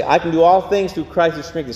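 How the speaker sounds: fast preview of the verse; quick lead-in recitation; quick run-through. Shown as a demonstration. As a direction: rattle it off once so they know it. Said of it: "Let's say, I'm gonna say".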